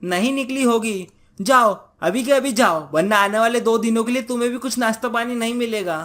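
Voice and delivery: a cross wife laying down an ultimatum; nagging wife, cross. Acted. Wife ordering husband to visit her brother, cross scolding. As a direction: scold him, pitched a little up.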